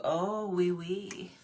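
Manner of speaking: a light mock French accent. Greeting the French bulldog in mock French. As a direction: toss off some pretend French. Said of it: "I took French".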